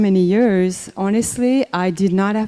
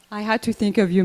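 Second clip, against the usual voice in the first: ordinary delivery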